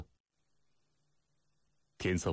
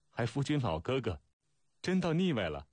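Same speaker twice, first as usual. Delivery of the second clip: high-pitched teasing, climbing at the end; narrated girlish mirth, voice lifted high; helplessly amused; 7 semitones higher than usual. A narrator's reading. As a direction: tease in a high, rising lilt. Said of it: "飞云在车辕上笑不可遏".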